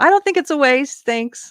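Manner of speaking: high, loud yelled voice. Retelling a reply shouted back at a heckler: retelling own yelled reply. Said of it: "I yelled back and I said".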